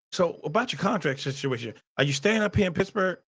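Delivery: lightly voiced reporter asking about the contract; mock reporter question. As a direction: ask it like a polite interviewer. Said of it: "it would've went like this".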